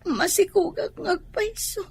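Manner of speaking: crying through the words; tearful confession. Acted. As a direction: sob out the apology to your mother. Daughter confesses pregnancy to mother.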